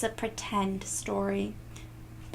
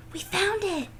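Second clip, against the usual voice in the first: joyful gasp; 7 semitones higher than usual. A narrator's reading. Girl finally finds the Big Apple, gasp then high joy.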